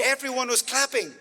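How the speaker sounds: high-pitched happy echo; joyful retelling. Retold or imitated. Interpreter echoes the crowd applauding.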